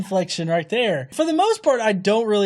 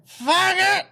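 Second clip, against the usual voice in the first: mock yell; 10 semitones higher than usual. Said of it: "He doesn't yell faggot".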